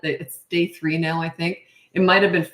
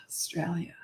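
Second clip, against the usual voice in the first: "Australia" whispered under her breath, much softer; whispered echo; 12 dB quieter than usual. Real, not acted. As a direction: repeat "Australia" to herself in a whisper. Whispered echo of viewer's location.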